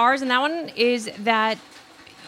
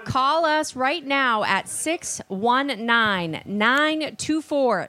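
slow, deliberate announcer read; radio contest promo; much slower than usual. Acted. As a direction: spell out the number slowly. Reading phone number slowly.

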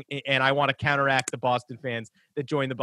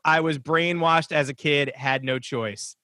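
read-out quote; slower than usual. Retold or imitated.

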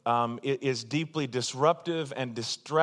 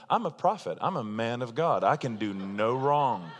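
mock-grand boast, slowing at the end; self-important boast; 4 semitones lower than usual. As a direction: puff it up like a self-declared prophet. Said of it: "all of a sudden".

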